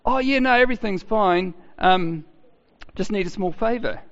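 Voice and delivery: mock-cheery, breezy caller asking a favour; imitating a chirpy late-night caller, lightly. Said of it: "they're gonna hear your cheery voice".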